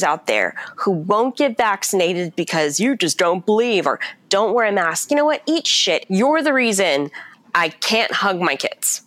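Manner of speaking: heated rant at the unvaccinated, pitch climbing; real anger. Real, not acted. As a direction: vent your fury at them, peaking on eat shit. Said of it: "I'm so angry".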